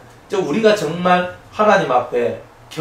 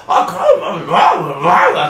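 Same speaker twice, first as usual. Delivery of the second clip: loud Gyeongsang chatter; 6 dB louder, much slower than usual. Retold or imitated. Gyeongsang people chatting in everyday talk, loud and laughing. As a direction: boom it out like a loud Gyeongsang local. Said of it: "경상도 사람들은 그냥 원래 목소리가 크고".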